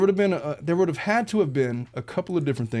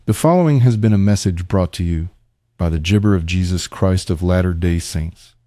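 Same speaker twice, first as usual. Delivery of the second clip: nasal computer-generated voice, louder; 5 semitones lower, 8 dB louder than usual. Shown as a demonstration. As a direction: deepfake voice with a glitchy mispronounced word. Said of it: "It's, like, all nasally and ... little high computer generated".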